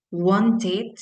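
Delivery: wanted with an added ID syllable at the end; English wanted. Shown as a demonstration. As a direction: say wanted ending in an ID sound. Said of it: "por ejemplo".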